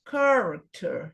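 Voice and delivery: slow "character", long CAR and short ending; stress on first syllable. Shown as a demonstration. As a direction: repeat "character" slowly for learners, leaning on CAR. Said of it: "sílaba pronunciada com mais força".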